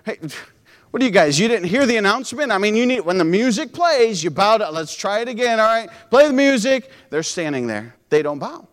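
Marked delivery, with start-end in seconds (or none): 0.1-6.9 a hint of a scolding king, fast; mock the king's demand; angry king. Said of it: "the king pulled them in and asked them".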